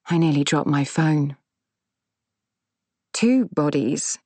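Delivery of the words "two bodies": slow, stunned "Two bodies?" with "Two" stressed; disbelieving question, "Two" drawn out; shocked. Acted. Narrator shocked at news.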